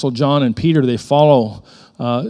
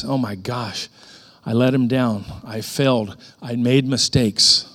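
quiet regret; 3 dB quieter than usual. Acted. Peter mourns his failure.

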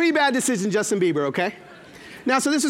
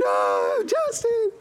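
put-on swooning fan girl; 11 semitones higher, much slower than usual. Imitating swooning daughter.

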